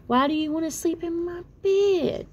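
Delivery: a dad surprised at a visitor; puzzled frog dad. Acted. Dad asks Tad why he is in his bed, puzzled.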